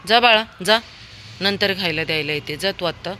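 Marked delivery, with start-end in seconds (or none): 0.1-0.8 higher, louder shoo to the dog; shooing call. Real, not acted. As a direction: send the dog away. (कुत्र्याला हाकलणे)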